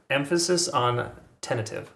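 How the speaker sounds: "tentative" with a lifted, leaning first syllable; stress on tentative. Shown as a demonstration. Chart vlogger stressing "tentative" for viewers, pitch lifted. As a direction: lean on "tentative" to underline caution. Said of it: "did I emph-, emphasize the, the right syllable".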